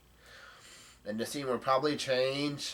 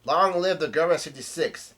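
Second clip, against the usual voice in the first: a mild mock crowd yell, higher and louder; retold yelling; 4 semitones higher, 6 dB louder than usual. Retelling how the crowd hails the Germa, a light mock yell. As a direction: shout it like a cheering mob. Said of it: "are yelling out".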